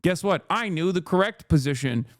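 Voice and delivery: mock smug gloating. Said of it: "yell at them to be like".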